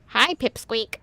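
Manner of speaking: lightly nasal mocking imitation; nasal Caleb. Player mimics a character they hate, mildly nasal. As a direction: put on a slightly too-nasal voice. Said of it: "He sounds way too nasally".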